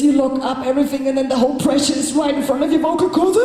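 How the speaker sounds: squeezed, pinched throat voice; locked-up tight throat. Shown as a demonstration. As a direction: demo a choked, locked voice. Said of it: "if you do this".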